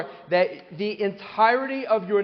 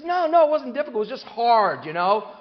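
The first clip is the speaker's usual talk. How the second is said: much higher, louder correcting no no; contrarian guy; 5 semitones higher, 4 dB louder than usual. Retold or imitated. Man in shul correcting Dave again: high insistent contradiction. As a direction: contradict him flatly, pitched up. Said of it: "He goes".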